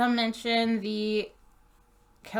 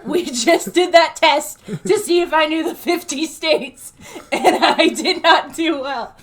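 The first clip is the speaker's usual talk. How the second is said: loud, high, laughing confession; 5 semitones higher, 11 dB louder than usual. Real, not acted. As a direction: laugh through it. Laughing about failed geography test.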